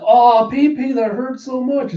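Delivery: high, slow whiny whimper; milk the pain for sympathy; whiny sibling. Retold or imitated.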